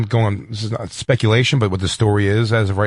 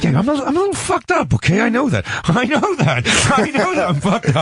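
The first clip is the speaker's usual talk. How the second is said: manic high voice; 12 semitones higher than usual. Retold or imitated. Mocking friend in manic voice.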